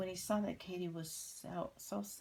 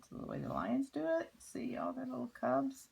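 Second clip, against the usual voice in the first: much higher and faster, thrilled; excited and high; 10 semitones higher than usual. Shown as a demonstration. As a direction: say it like an amazed child. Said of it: "repeated higher, faster".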